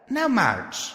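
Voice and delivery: high sharp order; bossy filly command. Acted. Ordering the colt away.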